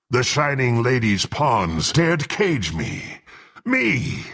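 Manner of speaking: indignant outburst, pitch leaping on the last word; affronted, high jump at the end. Acted. Freed prisoner rages at his captors, indignant. Indignant at having been caged.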